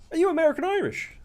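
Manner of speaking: mimicking the lad. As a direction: play a clueless bloke asking. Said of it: "he was like".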